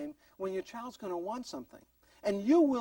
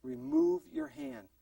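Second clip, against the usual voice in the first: slow, higher-pitched instruction; mother's command; 4 semitones higher, slower than usual. Retold or imitated. Mom warning baby off gas heater, commanding. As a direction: spell it out slowly for a toddler. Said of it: "Mom said".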